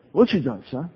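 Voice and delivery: mock Texan accent. Texas evangelist quizzing the little guy, mock Southern accent. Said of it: "Forgive my poor Southern accent".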